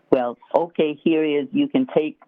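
deadpan retold joke, matter-of-fact; straight-faced. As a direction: deliver the joke without a hint of laughter. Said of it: "just with a straight face".

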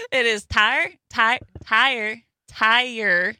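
"tire" said as a long two-beat "tai-er"; Florida pronunciation. Shown as a demonstration. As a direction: draw out "tire" into two syllables. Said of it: "two words that I still say".

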